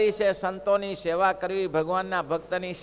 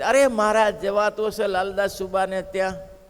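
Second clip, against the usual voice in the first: loud sudden cry of alarm; alarmed protest; 2 semitones higher, 5 dB louder than usual. Retold or imitated. Disciple alarmed that Maharaj goes to Laldas, loud protest. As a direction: burst out in dismay.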